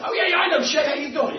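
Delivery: a friendly coach greeting a dad he knows; cheery greeting. Retold or imitated. Speaker voicing Don greeting the dad, high excited hello.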